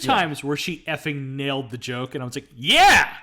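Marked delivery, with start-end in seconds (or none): 2.5-3.1 cheering. Retold or imitated. Cheering a nailed joke.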